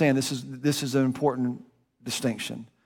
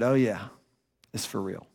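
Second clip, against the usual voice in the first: calm assurance; 5 semitones lower, 4 dB quieter than usual. Retold or imitated. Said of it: "And he said".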